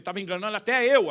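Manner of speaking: loud, high comic outburst; blurted confession. Retold or imitated. Husband confessing his act to wife, blurted outburst. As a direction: burst out, climbing high and loud.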